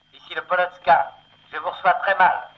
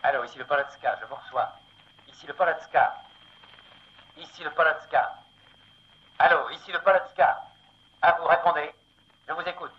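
radio voice; 8 semitones higher, faster than usual. Acted. Ship answers over radio.

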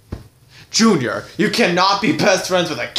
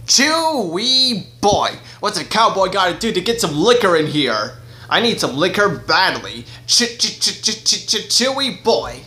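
cowboy character voice; 3 semitones higher than usual. Acted. Cowboy dentist bursts in asking for liquor: goofy cowboy voice. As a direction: play a goofy cowboy stammering his catchphrase.

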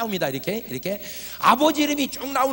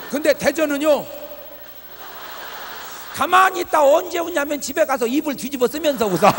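excited punchline; 5 semitones higher, 6 dB louder than usual. Acted. Punchline of a joke, raised.

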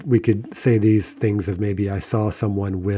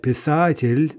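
писатель slow and raised, stressed on са; 5 semitones higher, slower than usual. Shown as a demonstration. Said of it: "stress is all the way back on the ah".

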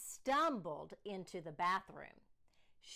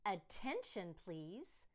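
loud, higher call for attention; calling the class; 5 semitones higher, 6 dB louder, much slower than usual. Acted. Principal calling the class to order, loud.

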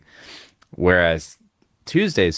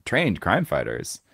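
announcer voice; 3 semitones higher than usual. Retold or imitated. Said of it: "that little bumper at the end".

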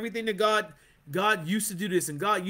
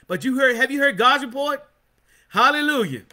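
preaching shout; 3 semitones higher, 5 dB louder than usual. Real, not acted. Preacher climaxes loudly.

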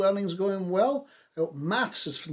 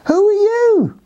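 very high, arching call; high, drawn-out questioning cry; loud cry; 11 dB louder than usual. Acted. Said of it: "he cried loudly".

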